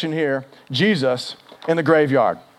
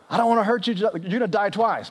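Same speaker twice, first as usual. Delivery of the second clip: higher-pitched, hammed-up regret; mock tearful apology; 4 semitones higher than usual. Jesus warning Lazarus he'll die twice, mock tearful. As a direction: break the bad news with mock distress. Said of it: "maybe he's crying".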